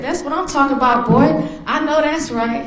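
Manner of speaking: high, emphatic re-enacted approval; proud mom cheering. Mother applauds son for giving blood, re-enacted proud cheer. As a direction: hype up your son with pride.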